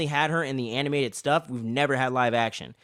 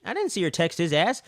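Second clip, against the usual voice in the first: incredulous rant; 8 semitones higher than usual. Retold or imitated. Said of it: "I'm like".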